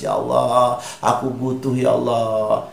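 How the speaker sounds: acted pleading, drawn-out and mildly tearful; tearful plea. Showing listeners how to beg Allah, mock tearful plea. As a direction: lightly act out begging God through tears. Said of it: "Apalagi sambil menangis".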